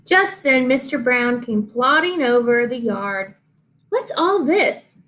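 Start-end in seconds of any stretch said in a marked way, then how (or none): 3.9-4.9 put-on higher, whiny old-horse voice; whining horse. A narrator's reading. Mister Brown the horse plods over, whining. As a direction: whine it like a grumpy old horse. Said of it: "he whined".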